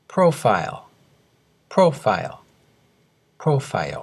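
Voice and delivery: プロファイル said as English "profile", two syllables; English pronunciation model. Shown as a demonstration. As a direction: clear teacher's model of プロファイル as native English. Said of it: "よく聞いてください".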